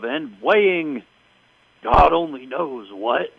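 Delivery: slow, drawn-out mock ring introduction; ring announcer intro. Vince introducing the fake Rosie, slow mock announcer. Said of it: "introduces this woman ... with something along the lines of".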